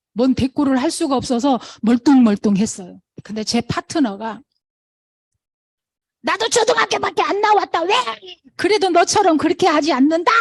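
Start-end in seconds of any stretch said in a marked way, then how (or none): 6.2-10.3 much higher and louder, shouting back; retold angry yell. Chinese partner yelling back at the crying partner. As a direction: snap back, matching her yell. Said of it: "그러고 소리를 질르더라고요".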